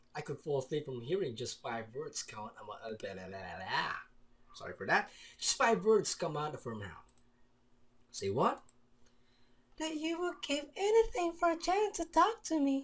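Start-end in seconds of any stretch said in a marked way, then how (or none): 9.8-12.9 high, loud put-on girl voice. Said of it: "Is my girl voice good?".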